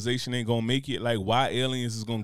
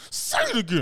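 higher, squeezed through clenched teeth; talking through teeth; 9 semitones higher than usual. Pretend. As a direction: hiss it through gritted teeth. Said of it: "I'm talking through my teeth".

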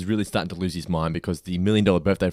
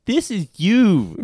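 put-on high, slow little kid voice; 11 semitones higher, 4 dB louder, much slower than usual. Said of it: "Then the kid".

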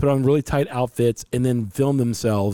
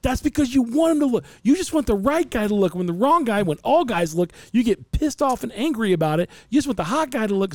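mock wife; 10 semitones higher than usual. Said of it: "my wife's like".

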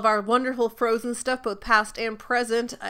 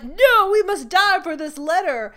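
higher, louder mock queen; hammy noble self-sacrifice; dramatic queen; 7 semitones higher, 5 dB louder than usual. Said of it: "she's like".

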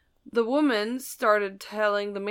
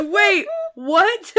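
surprised; 9 semitones higher, 7 dB louder than usual. Retold or imitated. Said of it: "She goes".

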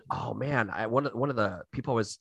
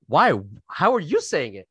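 mock accusing; 4 semitones higher, 5 dB louder than usual. Mock challenge that implies racism.

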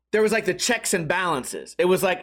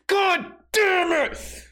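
high, slow, crying outcry; mock anguished outburst; 6 semitones higher, slower than usual. Fed-up teacher breaks down over students, mock anguished cry. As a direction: wail it in comic despair.

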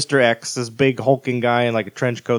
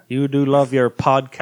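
put-on Irish accent. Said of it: "my Irish accent came out on that one".

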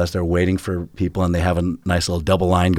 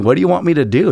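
exasperated plea; 8 semitones higher, 5 dB louder, faster than usual. Retold or imitated. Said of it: "just saying".

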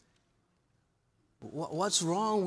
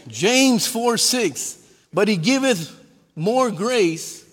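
loud, emphatic scripture reading; punched-out pulpit proclamation; preaching scripture; 2 semitones higher, 6 dB louder than usual. Real, not acted. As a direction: proclaim the verse forcefully to the congregation.

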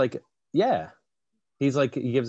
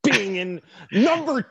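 Lewis Black; 8 semitones higher, slower than usual. Acted. Host plays the comedian explaining his lack of sequels, ranting impression. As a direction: strain upward and stretch the outraged words. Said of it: "That's a good L B".

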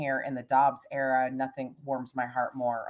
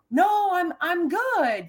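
mild retold yell back; 14 semitones higher, 4 dB louder, much slower than usual. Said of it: "she yells back out".

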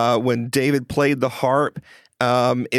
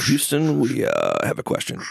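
mission control voice. Pretend. Mock mission control call.

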